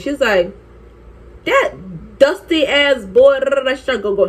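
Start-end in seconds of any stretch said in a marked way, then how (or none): 1.4-3.4 high, drawn-out scornful outburst; friend going off. Retold or imitated. Friend going off about the cheating boyfriend, indignant. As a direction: stretch out the insult, pitched up. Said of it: "she start going off".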